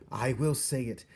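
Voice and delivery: high, very loud, defiant repeated soup; defiant shout. A narrator's reading.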